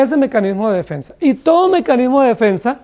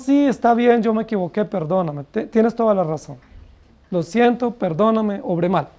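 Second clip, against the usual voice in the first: fading softer, contrite admission; humble apology; 3 dB quieter than usual. Retold or imitated. Preacher voicing a sinner owning up to a rebuke, contrite. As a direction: give in humbly, trailing off.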